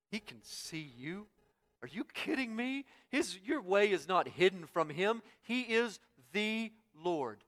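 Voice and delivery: high, astonished preacher's retort; incredulous. Acted. Preacher answering those who think God can't see, incredulous. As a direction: swoop up high in mock disbelief, then proclaim it.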